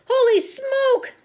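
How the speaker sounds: high, loud, drawn-out yell. A narrator's reading. Cook with a mouse climbing his leg, yelling. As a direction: stretch it out in shocked alarm. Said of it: "the man was yelling".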